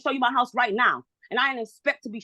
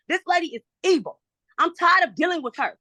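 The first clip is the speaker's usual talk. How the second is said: real frustrated yelling; 5 semitones higher than usual. Real, not acted. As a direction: let your frustration burst out. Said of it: "I'm sorry for yelling".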